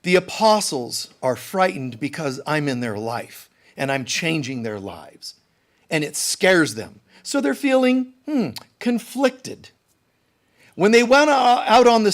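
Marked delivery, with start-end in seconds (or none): 0.0-9.7 calm Jesus. Pretend. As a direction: settle it gently like a patient teacher. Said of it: "Jesus would tell you".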